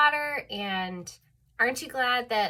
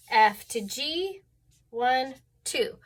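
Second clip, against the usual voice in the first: slow counting; slower than usual. Shown as a demonstration. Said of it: "we actually call that a second".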